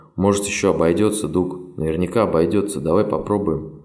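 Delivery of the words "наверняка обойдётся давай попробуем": plain reading voice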